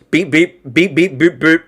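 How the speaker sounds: imitated robot beeps and boops; toy-robot processing noises; robot beeping. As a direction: beep like a cheap robot. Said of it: "it's just robotic".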